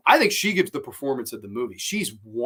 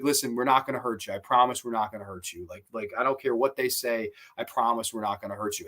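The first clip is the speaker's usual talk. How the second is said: lower-pitched, understated retold promise; sincere reassurance; 4 semitones lower, 4 dB quieter than usual. Kidnapper promises captive Candy her safety, sincere. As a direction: drop the pitch, gently imitate his reassurance. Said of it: "he's sincere about it".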